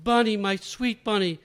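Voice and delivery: tearful relief. Acted. Mother embraces found daughter, tearful.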